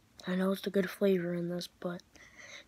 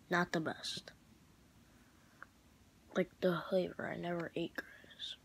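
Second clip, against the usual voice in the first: whispering; 5 dB quieter than usual. Real, not acted. Whispered aside about grass.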